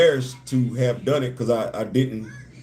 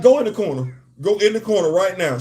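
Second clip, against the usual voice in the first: mock scolding; 4 semitones higher than usual. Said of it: "You got me acting like".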